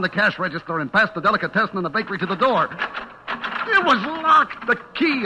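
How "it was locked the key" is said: dismayed realization. A narrator's reading. Discovering the door is locked.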